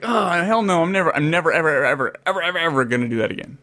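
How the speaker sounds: high-pitched start, then rapid-fire repetition; retold emphatic refusal. Recalling the tarantula scare to a friend, emphatic mock refusal. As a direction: act out swearing it off for good. Acting out his spooked refusal.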